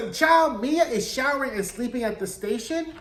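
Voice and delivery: Mia said high with a puzzled rising end; lifted, questioning disbelief; incredulous rise. Real, not acted. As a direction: ask "station" up like you can't believe it. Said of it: "What is that about?".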